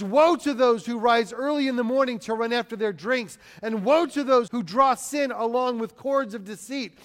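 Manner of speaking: forceful preacher's rendering of a prophet; crying out. Acted. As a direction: drive each woe home like a warning. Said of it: "he cries out to them".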